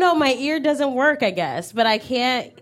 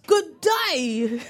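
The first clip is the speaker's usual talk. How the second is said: British good day. Shown as a demonstration. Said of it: "I said".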